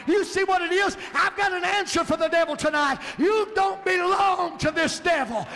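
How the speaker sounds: rising, shouted preaching build; full-force preaching. Acted.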